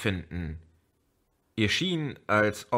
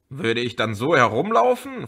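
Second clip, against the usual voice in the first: angry; 4 semitones higher, 4 dB louder than usual. Acted. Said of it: "fragte sie zornig".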